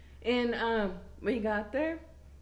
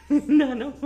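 laughing no; 6 semitones higher, 7 dB louder than usual. Real, not acted. Laughing at her own story.

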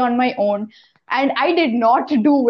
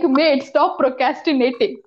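lightly faked Australian accent; half-hearted attempt at an Australian accent; bad Australian accent. Asking listeners to text the catchphrase, mock Australian accent. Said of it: "your Australian accent is so bad".

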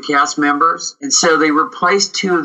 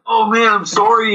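higher, sheepish sorry; sheepish apology; 8 semitones higher than usual. Retold or imitated. Bill apologising to the director after being caught, sheepish. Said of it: "Bill's like".

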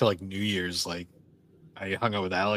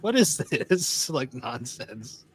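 slow baffled disbelief; 3 semitones higher, much slower than usual. Retold or imitated. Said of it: "it's like".

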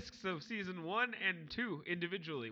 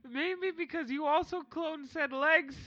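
put-on high, slow child voice with a laugh; giggling little kid teasing; childlike voice; 5 semitones higher, 3 dB louder, slower than usual. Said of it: "I'm a child again".

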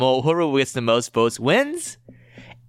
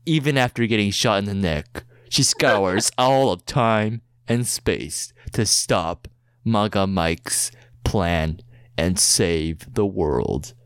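movie trailer voice; 3 semitones lower than usual. Acted. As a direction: build it up like an epic blockbuster trailer. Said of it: "in a movie trailer voice".

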